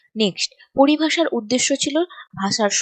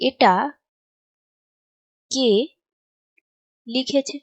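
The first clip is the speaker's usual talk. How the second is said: each word alone, long gaps between; spaced-out writing-along delivery; slow dictation; 2 semitones higher, slower than usual. Shown as a demonstration. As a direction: dictate word by word as you write. Dictates answer while writing it.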